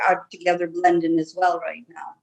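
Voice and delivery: light Irish brogue held throughout; Irish accent. Acted. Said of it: "I love your accent".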